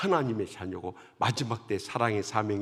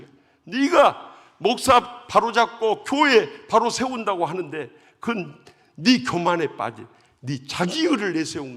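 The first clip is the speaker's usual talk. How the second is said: booming, much louder and higher divine scolding; god's stern rebuke; 6 semitones higher, 10 dB louder than usual. Retold or imitated. Preacher voicing God rebuking the deacon in a dream, booming. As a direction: thunder down judgment on the proud deacon. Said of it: "막 주님이 얼마나 책망을 했던지요".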